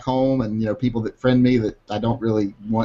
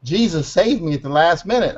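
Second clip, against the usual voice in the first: higher, preachy sing-song; mocking pious voice; 6 semitones higher than usual. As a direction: parody a grateful believer. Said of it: "people always go around".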